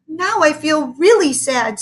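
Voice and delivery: high, slow, half-sobbed; mock sobbing. A narrator's reading. A boy sobbing lightly over his teacher leaving. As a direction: sob it out, lightly acted. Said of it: "sobbed Calvin".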